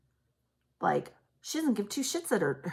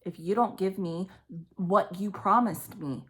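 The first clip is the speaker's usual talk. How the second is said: imitating threatening mother. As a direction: play the mother's rage as she threatens him. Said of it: "the energy is like".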